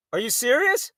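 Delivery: incredulous question, rising at the end; retold disbelief. Reacting to mother's convulsions, mild retold disbelief. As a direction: let it climb in disbelief.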